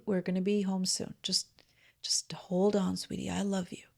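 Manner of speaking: put-on gentle, soothing reassurance to a crying child; soft grandmotherly comfort, partly whispered; soft loving grandma. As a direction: murmur it tenderly like a grandmother. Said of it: "in this really soft and loving tone".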